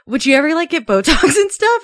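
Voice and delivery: quoting her friend. Retold or imitated. Allie's question retold.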